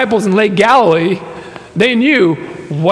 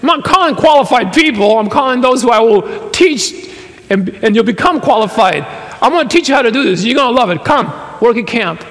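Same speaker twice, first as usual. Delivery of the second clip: pastor's pitch; 3 semitones higher than usual. Retold or imitated. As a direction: sell it like an excited camp pastor. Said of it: "And he said".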